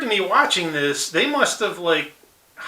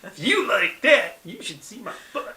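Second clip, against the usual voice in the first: lightly voiced cartoon character, pitched up; a higher quoted reply, dropping away softly at the end; Otto; 4 semitones higher, 4 dB quieter than usual. Otto replying to the appalled director, light impression. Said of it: "that was Otto's reply".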